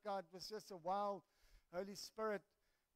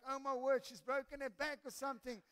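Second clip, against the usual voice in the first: raised, louder mock alarm; retold alarm; 5 semitones higher, 6 dB louder than usual. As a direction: blurt it out as startled storytelling. Retold alarm at woman falling.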